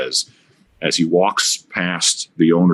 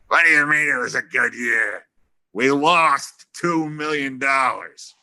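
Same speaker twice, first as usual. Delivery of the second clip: indignant owner; 4 semitones higher, slower than usual. Retold or imitated. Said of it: "O'Malley goes".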